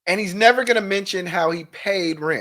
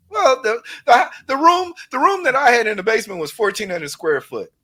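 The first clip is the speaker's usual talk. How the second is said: mock excuse; 4 semitones higher than usual. Mocking the liar's excuse.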